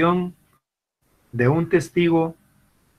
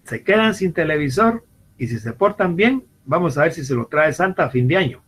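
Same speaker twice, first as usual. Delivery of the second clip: father's verdict; 3 semitones higher than usual. Retold or imitated. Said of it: "él viene y dice".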